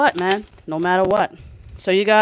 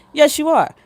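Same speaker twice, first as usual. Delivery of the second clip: higher and louder, insisting YES; emphatic insistence; 8 semitones higher, 6 dB louder than usual. Shown as a demonstration. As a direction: shout it back with conviction.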